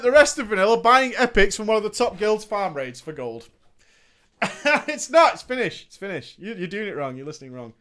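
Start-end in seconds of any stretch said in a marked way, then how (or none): none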